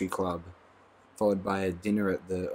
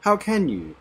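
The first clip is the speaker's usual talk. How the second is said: much higher, louder shocked question; amazed distress; 12 semitones higher, 7 dB louder, slower than usual. A narrator's reading. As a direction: demand it in horrified amazement. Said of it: "in a voice of amazed distress".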